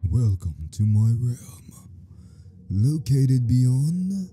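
slow, grand deity reading; slow god voice. Acted. Reading the god's lines to viewers, slow and grand. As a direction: intone it like an ancient god. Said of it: "okay, that sounds stupid".

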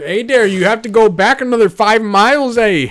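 lilting put-on Canadian accent; mock Canadian accent. Mounties sending hunters back five miles, mock Canadian accent. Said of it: "they're like".

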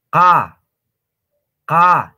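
loud "Ka" made as qa, mouth wide open; plain Quechua Q. Shown as a demonstration. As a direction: open the whole mouth and sound "Ka" far back. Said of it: "Abran toda su boca". (qa simple, con la boca bien abierta)

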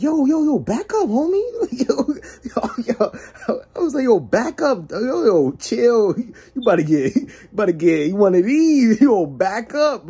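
high, urgent back-off; panicked warning. Retold or imitated. Warning the possessed DJ to back up, alarmed.

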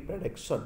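"प्रोडक्शन" starting with a short "pruh"; correct pronunciation. Shown as a demonstration. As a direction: model "प्रोडक्शन" with no rounded o. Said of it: "तो आप बोलेंगे". ("प्रोडक्शन" का सही उच्चारण, "प्रडक्शन")

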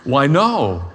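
amused "Why, no" with a laugh; chuckled joking answer; laughing reply. Real, not acted.

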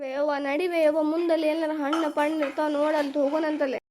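put-on tired kid whimpering to mum; mock tearful pleading. Tired child whining to mother.

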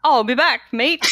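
put-on Australian accent. Cohost urged to give it a go, loud hammed-up Australian accent. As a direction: belt out an amateur Aussie catchphrase. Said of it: "in an Australian accent".

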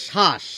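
শ্বাস said shash, no b sound; teacher shows শ্বাস without the b; initial ব-phala silent. Shown as a demonstration. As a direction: drop the b, শ্বাস as plain shash. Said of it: "বটিকে বাদ দিয়ে উচ্চারণ করি".

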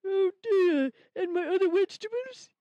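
tearful puppet rabbit; whimpering upset; crying. Acted. Rabbit upset over stolen food.

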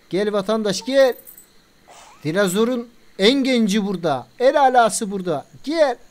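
mock hawker pitching dinosaurs; street hawker call. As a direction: call the crowd in like a bazaar vendor. Calling out to park visitors.

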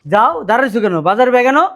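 loud, high-pitched impatient command; angry order. Acted. Husband angrily orders wife to move.

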